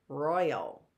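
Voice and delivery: "royal" stressed on ROY, falling away; first-syllable stress. Shown as a demonstration. Teacher giving the answer, "royal" stressed at the front. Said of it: "It's on the roy".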